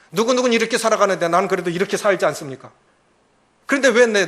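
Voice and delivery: loud, indignant prayer; angry complaint to God. Acted. Jonah-like believer shouts at God in prayer, angry. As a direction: shout your grievance at God. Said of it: "이렇게 화내는 거예요".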